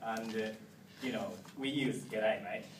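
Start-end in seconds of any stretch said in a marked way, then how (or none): 2.1-2.7 "g'day, mate" in Australian style; Australian greeting. Shown as a demonstration. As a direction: greet them Aussie-style, "mate" like "mite". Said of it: "Australian people use own language".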